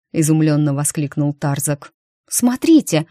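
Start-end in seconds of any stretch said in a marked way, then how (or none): 2.3-3.1 higher, louder startled cry; gasping exclamation. A narrator's reading. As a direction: gasp it at the window. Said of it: "ахнула Майта". (изумлённый возглас)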